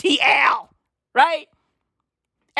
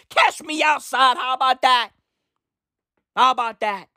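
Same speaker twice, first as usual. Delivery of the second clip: meme quote; 4 semitones higher than usual. Retold or imitated. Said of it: "a rapper".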